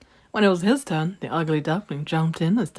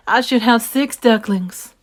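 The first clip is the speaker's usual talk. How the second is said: higher, louder fretting mother duck; worried mama duck; 5 semitones higher, 6 dB louder than usual. Acted. Mama duck finds one duckling missing, higher and fretting. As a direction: count again, something's missing.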